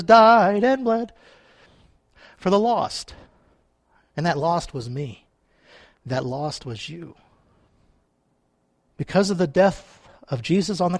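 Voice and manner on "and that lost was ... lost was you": hushed and solemn. Real, not acted. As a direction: let it drop to a quiet, personal confession. Hushed personal point after the cross.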